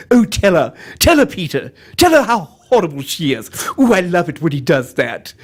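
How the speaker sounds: lightly voiced cartoon wife. Wife urges husband to tell her, cartoon wife voice. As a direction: egg the husband on. Acts out Griffin's wife egging him on.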